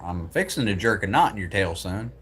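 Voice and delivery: mock Southern folksy threat; Southern American accent. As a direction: put on a Southern twang, trailing off on son. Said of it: "That's very Southern American".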